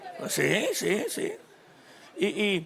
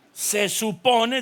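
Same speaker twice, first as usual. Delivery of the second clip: slow emphasis; much slower than usual. Shown as a demonstration.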